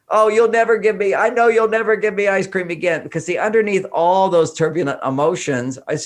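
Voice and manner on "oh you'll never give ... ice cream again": put-on despairing child. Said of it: "And they go".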